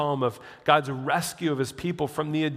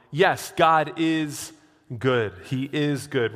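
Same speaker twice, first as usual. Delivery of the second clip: emphatic declaration; 3 dB louder, slower than usual. Acted. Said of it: "preaching emphasis".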